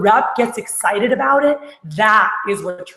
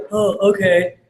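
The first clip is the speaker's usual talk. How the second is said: drawn-out, indifferent acknowledgement; unexcited response; slower than usual. Shown as a demonstration. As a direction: act out a rep who couldn't care less. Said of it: "you don't get excited".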